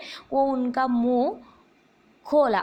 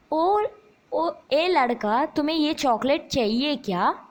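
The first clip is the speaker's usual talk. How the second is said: kindly coaxing; 2 semitones higher than usual. Retold or imitated. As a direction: sweet-talk the boy with the chocolate. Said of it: "ऐसे बोल रहा है". (प्यार से बुलाना)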